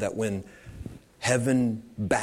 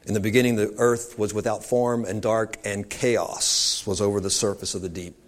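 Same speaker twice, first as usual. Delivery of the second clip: louder, scripture read with weight; booming biblical narration; 4 dB louder than usual. A narrator's reading. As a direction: proclaim it like Genesis. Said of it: "chaos is what the enemy's all about".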